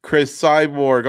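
slow, stretched "Chris Cyborg" with a long hiss on Chris, like a fight announcer; mock ring-announcer name, slow and drawn; drawn-out name call. Shown as a demonstration. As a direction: draw "Chris Cyborg" out slowly, savouring each syllable. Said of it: "I'm just gonna give you the M M A names".

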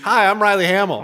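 sorority girl introducing herself, hammed up; mock sorority girl. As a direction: play a chirpy college sorority girl. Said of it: "You sound like a sorority girl".

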